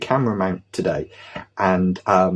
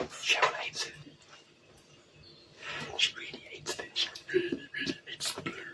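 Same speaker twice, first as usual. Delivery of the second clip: very quiet, hushed, barely voiced whisper. Talking to the camera while someone is behind the door: whispering. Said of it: "I'm whispering because she's the other side of that door".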